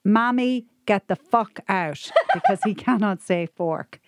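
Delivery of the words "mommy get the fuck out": put-on shouting toddler. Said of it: "started shouting out loud".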